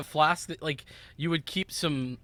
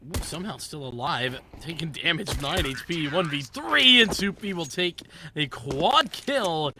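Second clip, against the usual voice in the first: building to a loud, stretched climax; tense play-by-play; 4 dB louder than usual. Real, not acted. Caster calling a one versus three, tense play-by-play. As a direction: ride the clutch up to the kill.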